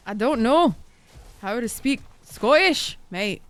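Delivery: lightly put-on Scottish accent; slow, unsure Scottish accent on the last words; mock Scottish accent. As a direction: try a half-hearted Scottish accent. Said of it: "Farrah's turning into a Scottish streamer".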